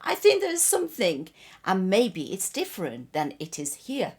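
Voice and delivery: high, loud storybook insistence; insistent believer. A narrator's reading. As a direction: launch in high and push the hopeful argument. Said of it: "The second one insisted".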